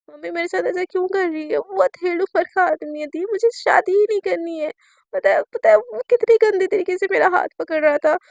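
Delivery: put-on sobbing plea to her older sister; crying on the phone. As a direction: beg her sister through tears. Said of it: "Sunaina ने एकदम रो रही होती है".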